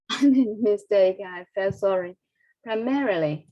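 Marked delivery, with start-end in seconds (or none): 2.6-3.5 "primarily" with the stress on MAR; highlighted stress. Shown as a demonstration. Teacher echoing the video after her mistake, highlighted stress. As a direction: lean on the second syllable of "primarily", then fall. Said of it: "I will highlight the stress here".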